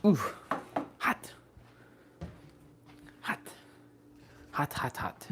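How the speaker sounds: breathy hot hot from a burning mouth; mouth full of hot food. Real, not acted. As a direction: puff out the words around scalding food. Eating food too hot.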